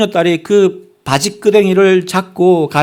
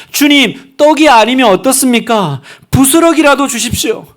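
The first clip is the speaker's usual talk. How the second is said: fervent humble plea; 7 semitones higher, 4 dB louder than usual. Acted. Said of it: "그 겸손한 마음이요".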